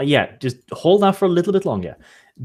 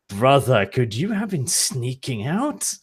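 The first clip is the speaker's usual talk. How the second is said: slow mock accusation; 3 semitones lower, slower than usual. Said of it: "I'm like".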